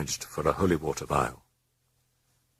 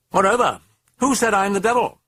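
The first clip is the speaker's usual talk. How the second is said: high, fast, louder sneer; gleeful mocking demon; 6 dB louder than usual. The demon mocking the priest Carus, high and gleeful. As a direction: taunt him like a delighted fiend.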